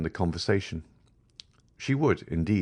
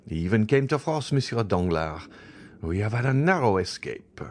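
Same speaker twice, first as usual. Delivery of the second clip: relieved gossip about a narrow escape; voiced Baroness; 8 semitones higher than usual. A narrator's reading. Baroness on the Morcerfs.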